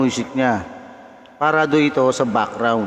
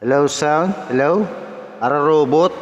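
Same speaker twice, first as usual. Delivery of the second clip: tuned, robotic electro effect; stepped, machine-like test calls. Shown as a demonstration. Host tests the electro key shift, robot voice. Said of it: "Para robot yung boses".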